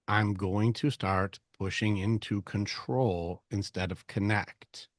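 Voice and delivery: ordinary talk, nothing marked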